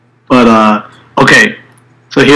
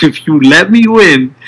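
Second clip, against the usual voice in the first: through gritted teeth; 6 semitones higher than usual. Retold or imitated. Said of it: "he's screaming this".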